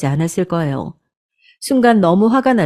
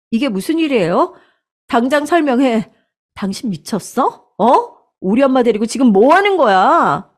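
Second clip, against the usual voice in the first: higher, sharp angry questions; furious confrontation; 5 semitones higher than usual. Acted. Wife confronting her mother-in-law, high and angry. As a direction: demand an explanation now.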